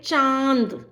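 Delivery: चांद with a long nasal vowel; nasalised vowel. Shown as a demonstration. Teacher shows students anunasik sound, drawn-out nasal चांद. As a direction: send चांद through nose and throat together. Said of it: "नाक और गले दोनों से उच्चारित".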